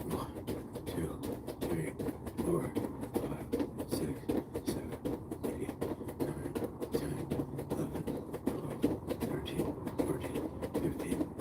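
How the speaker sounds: breathy counting mid-exercise; doing jumping jacks. Real, not acted. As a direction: count reps while jumping. Counting reps during jumping jacks.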